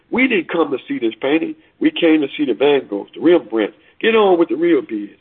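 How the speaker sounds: understated indignant protest; a touch of anger in an acted heckle; mild angry shout. Bidder demanding the real paintings, mildly angry shout. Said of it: "Another voice shouted angrily".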